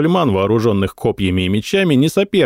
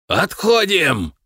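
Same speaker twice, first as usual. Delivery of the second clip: slow, higher drawn-out retreat shout; hoarse yell; 9 semitones higher, slower than usual. A narrator's reading. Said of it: "хрипло заорал он".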